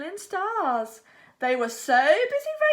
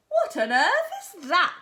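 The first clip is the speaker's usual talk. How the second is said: shouted; 5 semitones higher than usual. Acted. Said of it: "shouted Albert".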